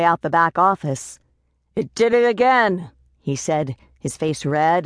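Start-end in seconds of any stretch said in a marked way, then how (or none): 1.8-2.9 irate complaint. A narrator's reading. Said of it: "an irate man".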